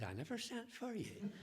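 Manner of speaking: laughing through it. Retold or imitated. Punchline voiced with laughter.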